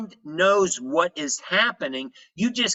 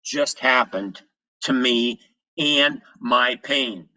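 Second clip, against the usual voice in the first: drawn-out catchphrase; 2 semitones lower, slower than usual. Shown as a demonstration. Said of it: "Now I call it".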